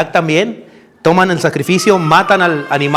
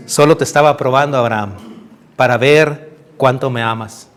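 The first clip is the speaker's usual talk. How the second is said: tender God; 5 semitones lower than usual. Acted. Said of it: "Dios llega y le dice".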